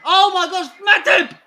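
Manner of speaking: loud, laughing disbelief at a defender's blunder; exasperated cry. Real, not acted. Fan yelling at the screen over a defender, laughing in disbelief. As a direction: groan his name out, half laughing.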